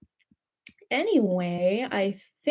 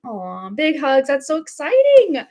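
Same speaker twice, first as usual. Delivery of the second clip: excited; 4 semitones higher, 5 dB louder than usual. Real, not acted.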